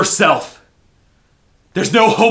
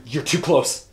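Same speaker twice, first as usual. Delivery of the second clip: sudden loud, higher alarm; alarmed cry; 6 semitones higher, 13 dB louder than usual. Acted. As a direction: panic rising as they approach. Visitor comes too close.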